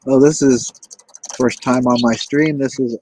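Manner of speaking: loud welcome. Real, not acted. Welcoming a new guest on stream.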